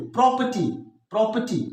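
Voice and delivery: प्रॉपर्टी with weight on प्रॉ; stress on first syllable. Shown as a demonstration. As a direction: hit प्रॉ, then let पर्टी fall in प्रॉपर्टी. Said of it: "stress, unstress.".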